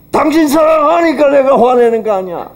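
high, loud self-justifying cry; husband defending his anger to his wife; indignant retort. Retold or imitated. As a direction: fire it back defensively. Husband's retort during quarrel.

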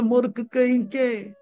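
angry master. Acted. Angry master scolds laughing servant.

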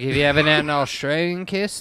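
put-on Australian come-on; Australian accent. Skateboarder flirting with the women, Australian accent. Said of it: "his accent's so hot".

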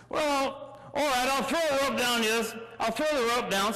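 lightly voiced British skipper; a hint of obliging British captain. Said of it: "Captain's British".

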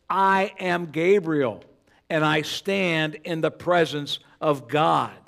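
slow, "I" and "stand" weighted; emphatic declaration. Retold or imitated. Preacher voicing Gabriel's emphatic reply, slow. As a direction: declare it slowly and firmly. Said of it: "same type of emphatic expression".

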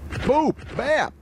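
excited sound effects. Real, not acted. Calling out hits in game.

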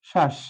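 শ্বাস as "shash", halted on sh; closed syllable demo. Shown as a demonstration. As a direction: isolate শ্বাস as one stopped syllable. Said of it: "থেমে গেলাম". (থেমে যাওয়া বদ্ধাক্ষর "শাশ্")

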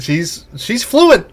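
loud, high, stretched insistence; emphatic insistence. Acted. Player defending Kwan's arm flails, emphatic and loud.

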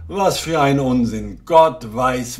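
loud, exasperated outburst; irritated general cutting him off. Acted.

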